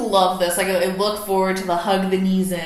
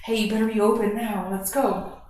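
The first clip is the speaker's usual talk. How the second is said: mock pushy drill. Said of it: "jarring and forcing".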